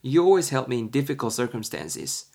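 very slow English, each word clear; slow example read. Shown as a demonstration. Teacher reading B's reply to students, slow and clear. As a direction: spell out the example slowly for learners. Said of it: "B가 뭐라 그래요?".

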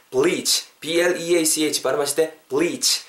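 "bleach" with a drawn-out "ee"; "bleach" as "bleeech"; long vowel. Shown as a demonstration. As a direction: stretch the vowel of "bleach" a little. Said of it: "약간 좀 길게 발음한다라는 그 기분".

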